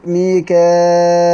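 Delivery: ميكائيل slowly with kasra hamza after alif, then ya. Shown as a demonstration. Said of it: "بهمزة مكسورة بعد الألف وياء ساكنة".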